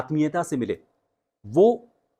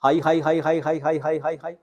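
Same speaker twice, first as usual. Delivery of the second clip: high pitch drill; 4 semitones higher than usual. Shown as a demonstration. Coach demonstrates the high-pitch drill for students. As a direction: lift each हाई high and bright. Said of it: "उसी pitch पे, उसी tone के साथ बोलना है".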